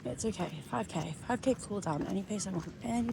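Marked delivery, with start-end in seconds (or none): 0.0-0.5 soft, teary and shaken; quiet, holding back tears; close to tears. Real, not acted. Runner near tears, soothing herself. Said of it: "I'm gonna cry".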